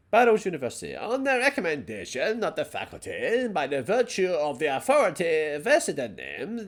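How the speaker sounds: a touch of posh, slowed formal reading. Pretend. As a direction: read the diploma in a mild posh voice. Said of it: "that's my, my posh voice".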